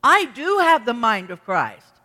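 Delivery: insistent refusals that fall away, then a firm declaration; arguing with oneself. Acted. Believer arguing with their own doubts, insistent. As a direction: argue back at your own thoughts. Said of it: "You have to argue with yourself".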